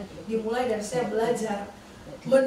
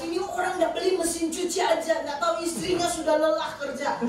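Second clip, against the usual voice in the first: higher-pitched reenacted grumbling rant; retold ranting; 5 semitones higher than usual. Wife venting alone while washing his clothes, retold ranting. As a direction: re-enact fuming over the chore. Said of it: "terus sambil saya ngamuk".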